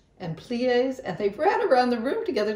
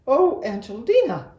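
high, louder voiced mother, fed up; exasperated exclaim; 11 semitones higher, 5 dB louder than usual. A narrator's reading. Mother exclaims at the spilled milk, high and exasperated. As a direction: throw up your hands at the mess. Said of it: "exclaimed her mother".

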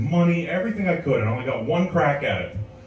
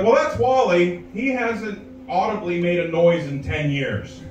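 slow, higher matter-of-fact nurse; lightly voiced nurse explaining a patient; 3 semitones higher, slower than usual. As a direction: explain it flatly like a weary nurse.

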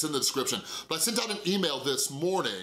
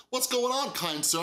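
higher, lightly voiced polite mom; mock-polite woman; 8 semitones higher than usual. Grocery store mom greets Chris, higher mock-polite voice. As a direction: pitch it up for a courteous stranger.

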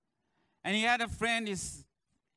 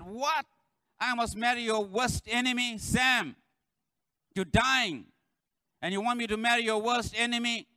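shocked wife; 5 semitones higher, 3 dB louder than usual. Retold or imitated. Wife voiced in joke.

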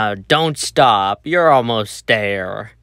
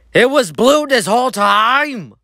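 much higher, stunned question; shocked realization; 9 semitones higher than usual. Acted. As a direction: gasp it out as the truth dawns. Shocked discovery of the culprit.

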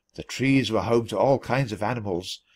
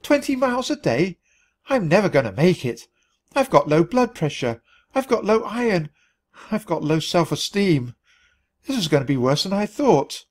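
sobbing; 4 semitones higher than usual. Acted. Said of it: "I sobbed".

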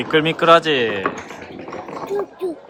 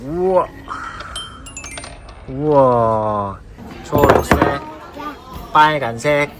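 excited cheering; 4 dB louder, slower than usual. Real, not acted. Cheering the toddler.

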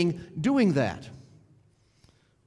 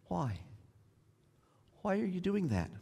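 hushed questioning; 10 dB quieter than usual. Retold or imitated. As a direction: ask why in a hushed voice. God's voice asking why again.

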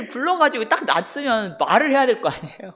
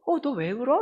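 higher-pitched, startled concern; surprised concern; 5 semitones higher than usual. Retold or imitated. Asking a crying friend what is wrong, surprised concern. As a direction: ask in retold surprise and sympathy. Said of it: "놀래서 안타까워서".

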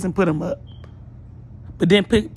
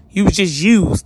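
angry callout; 6 dB louder than usual. Real, not acted.

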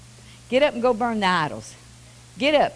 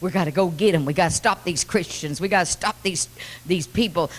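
lower, scheming devil; lightly voiced devil; 4 semitones lower than usual. The devil rallying his troops, lower and scheming. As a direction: plot it low as the worried devil. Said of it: "The devil said".

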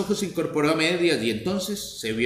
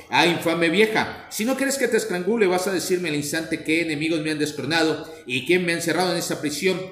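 furious shout. Acted.

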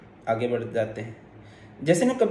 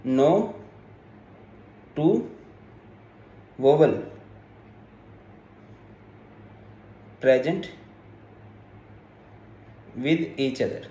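word by word, long pauses between; dictation; 3 dB quieter, much slower than usual. Real, not acted. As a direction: dictate slowly for students writing it down. Dictating a rule for note-taking.

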